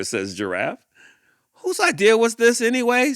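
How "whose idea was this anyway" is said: indignant leopard. Acted. Leopard after tumbling.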